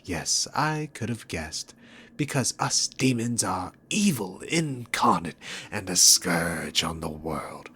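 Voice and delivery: hammed-up self-righteous recital; sarcastic mockery. Mocks the hero's accusations.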